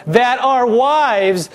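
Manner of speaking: high, slow whiny complaint; whining. Retold or imitated. Preacher mimicking Israelites complaining, high slow whine. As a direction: stretch it out in a self-pitying whine. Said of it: "Can you hear the whine in their voice".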